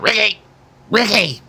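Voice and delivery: high calling out a name across the yard; imitating a mother calling her son home; mom calling out. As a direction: yell it like a mom at the door. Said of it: "They'd be like".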